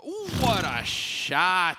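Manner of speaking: drawn-out hyped yell; excited shout. Real, not acted. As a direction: erupt at the play. Caster erupts at a great shot.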